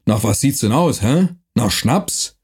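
rough dialect voice, lightly done; gruff Franconian watchman. Acted. Night watchman threatening the stranger, gruff dialect. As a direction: bark it like a mercenary guard.

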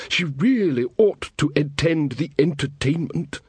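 put-on a fretful young king; nervous young king. Verence voiced.

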